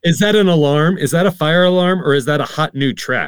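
playing a confused old man; mock alarmed. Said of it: "mock old person confused by music".

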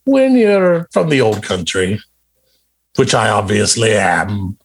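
a hammed-up Scottish accent, lightly done; mock Scottish accent. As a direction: fake Scottish brogue, barely convincing. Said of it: "with this accent".

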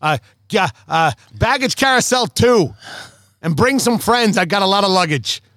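put-on Boston phone caller; Boston accent. Asking Tommy for a pickup at baggage, mock Boston accent. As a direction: play an oblivious Boston passenger on a call. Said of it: "what was that accent".

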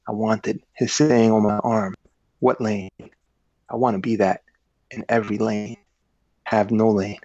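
reading a novel aloud with lively narration; story reading. A narrator's reading. Author reading his book aloud to the interviewer. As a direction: read the passage like an audiobook narrator. S1 reads the bracelet passage.

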